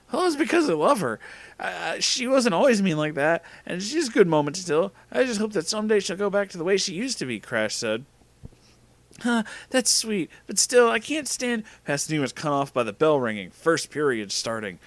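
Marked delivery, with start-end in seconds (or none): 0.1-7.4 put-on high-pitched boyfriend voice; earnest Crash. Boyfriend explaining his love, high earnest voice. 9.2-11.6 put-on high, slow girl voice; sympathetic Pasadena. Girl answering lovestruck boy, high slow voice.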